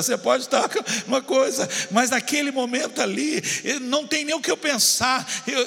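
high, urgent preacher's cadence; impassioned preaching. Real, not acted. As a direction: pile up the phrases with rising fervor. Preaches at full force.

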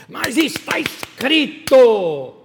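loud, high, drawn-out proclamation; hammed-up booming scripture quote; mock preachy shout. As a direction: thunder it slowly, stretching each word. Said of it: "com essa entonação".

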